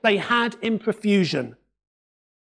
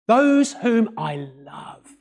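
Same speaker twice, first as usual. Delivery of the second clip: tender; 5 semitones lower, much slower than usual. Shown as a demonstration. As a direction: say it as a loving father would, gently. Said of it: "rooted in love and affection".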